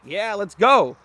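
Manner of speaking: high, loud burst of hype; excited. Acted. Trainer starting excited play with the dog, excited.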